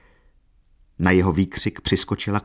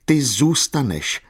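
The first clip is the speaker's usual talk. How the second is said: slow, high, raised accusation; wild cry; 6 semitones higher, 3 dB louder, slower than usual. A narrator's reading. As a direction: hurl it at her wildly. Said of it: "zvolal divoce na Katerinu". (divoké zvolání)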